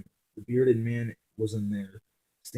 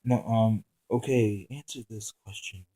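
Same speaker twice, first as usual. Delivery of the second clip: blank tone. Acted. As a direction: say it with no feeling. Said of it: "asked in a blank tone".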